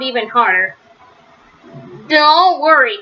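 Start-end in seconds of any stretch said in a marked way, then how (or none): 2.1-3.0 bravely. Acted. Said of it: "said Franklin bravely".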